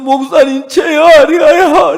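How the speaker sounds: high, slow, tearful, near-crying voice.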